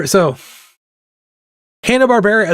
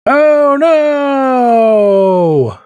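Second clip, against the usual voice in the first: sudden, higher, louder oh no; surprised; 8 semitones higher, 3 dB louder than usual. Real, not acted. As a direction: yelp at a slip of the pen. Mistake while drawing.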